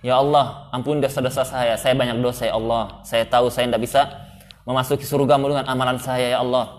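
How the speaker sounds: earnest, humble plea to God; humble prayer. Shown as a demonstration. Teacher shows students how to pray while walking, humbly pleading. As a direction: pray it sincerely, asking for forgiveness. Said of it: "Antum sambil jalan berdoa".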